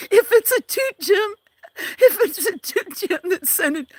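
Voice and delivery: high squeaky put-on frog voice. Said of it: "is it because you like my frog voice?".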